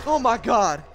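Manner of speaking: high screamed laugh of shock; shrieking laugh. Real, not acted. Gamer shrieking with laughter after a scare.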